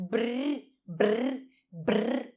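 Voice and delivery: isolated br sounds, buzzing the lips into the R; sounding out br. Shown as a demonstration. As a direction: sound the cluster br alone. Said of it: "Eu falo estas duas consoantes".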